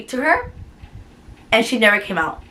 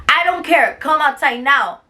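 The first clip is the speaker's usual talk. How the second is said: angry order, retold; 4 semitones higher than usual. Imitating the director's angry order.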